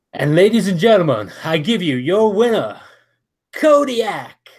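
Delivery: high, loud winner announcement; announcer hyping the champion to the arena; ring announcer. Acted. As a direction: stretch the name for the crowd.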